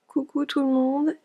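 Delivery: hushed late-night hello; whispering. Real, not acted. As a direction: whisper so the neighbours don't hear. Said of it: "je parle pas trop fort".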